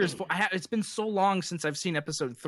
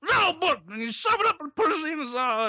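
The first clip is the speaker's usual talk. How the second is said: Bill Cosby impression; 6 semitones higher than usual. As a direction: go full Cosby, laughing through it. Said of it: "Bill Cosby".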